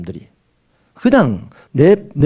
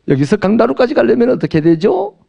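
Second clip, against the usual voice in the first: fake Seoul accent; 5 semitones higher than usual. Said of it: "얼추 서울 말 같죠".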